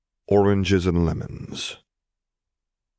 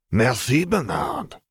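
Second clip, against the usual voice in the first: carrying voice; 7 semitones higher, slower than usual. A narrator's reading. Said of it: "Julian's voice carried across the bramble thicket".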